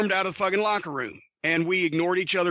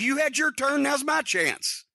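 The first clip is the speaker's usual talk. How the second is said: high, then slowing to a deliberate finish; insistent retort; 7 semitones higher, slower than usual. Retold or imitated. Telling Nikita it's his turn now, high and insistent, slowing down. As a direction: claim the floor, stretch the last words out slow.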